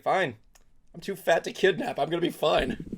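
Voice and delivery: smug, lazy pet cat. Pretend. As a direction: voice the fat cat, unbothered and smug. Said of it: "would Simon's like".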